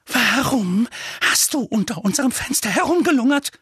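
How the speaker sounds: high-pitched, pointed interrogation; scolding aunt in a high voice; accusing aunt. A narrator's reading. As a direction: demand an explanation from the boy.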